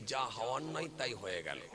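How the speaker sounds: soft, low resigned sigh of a line; weary lament. Retold or imitated. Beaten man lamenting to himself, softly and wearily. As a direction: mutter it softly, rubbing the sore head. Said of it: "কপালে হাত বুলিয়ে বলছে".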